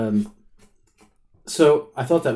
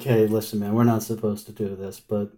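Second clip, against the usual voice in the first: conniving official. Retold or imitated. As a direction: lean in and drop your voice, conniving. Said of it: "in very, um, conniving way".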